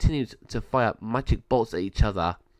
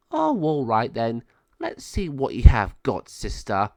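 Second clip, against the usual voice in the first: lightly voiced villain, slow taunt; 5 dB louder than usual. Villain accepting a fight.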